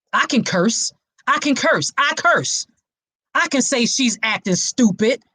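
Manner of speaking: mock an accusation of abuse; abusive partner sound bite. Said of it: "Let me read one more to you".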